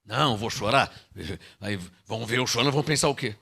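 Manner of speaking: a hint of a shy, proud man; mock proud believer. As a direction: mutter like an embarrassed believer. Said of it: "Qual o problema de chorar, irmão?".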